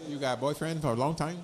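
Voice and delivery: light mock Asian accent; broken English with an Asian accent. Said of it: "my Asian accent".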